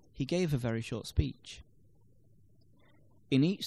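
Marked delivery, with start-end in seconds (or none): 0.1-1.6 "a very short" said quickly and lightly; stress-timed rhythm. Shown as a demonstration. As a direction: squeeze "a very short" between beats on "gave" and "speech". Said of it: "had to be said more quickly".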